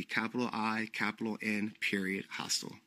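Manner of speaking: quietly spelling the name, falling. Shown as a demonstration. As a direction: dictate it calmly to close. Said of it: "that's the name that of my hostel would be".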